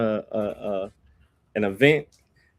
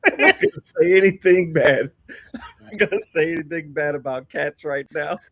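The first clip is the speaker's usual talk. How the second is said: laughing; 3 dB louder than usual. Real, not acted. Laughing while teasing guest.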